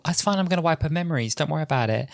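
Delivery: mock know-it-all, airy and high; arrogant Doctor. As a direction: brush it off with breezy self-assurance. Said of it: "the Doctor just being so completely arrogant".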